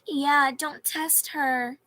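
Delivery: slow loud mock warning; mock backup. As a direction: back up your friend with mock menace. Imitating Pi's backup.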